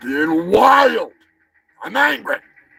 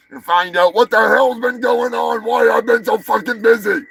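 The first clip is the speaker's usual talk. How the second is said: excited shout; 7 semitones higher, 3 dB louder than usual. Acted. Hyping the big reveal.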